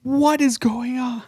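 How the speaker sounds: high, slow disbelief; drawn-out baffled exclamation; bewildered. Retold or imitated. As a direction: act out total confusion at a film. Acts own bewilderment at movie.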